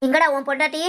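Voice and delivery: cross, demanding question; irate but not fully shouted; angry scolding. Acted. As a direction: confront a son about his wife. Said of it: "ஏன் இப்படி கத்துற?".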